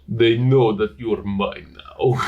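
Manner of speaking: slow, drawn-out possessive line; mock romance hero. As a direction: stretch it out like a hammy romantic lead. Repeats the line in put-on manner.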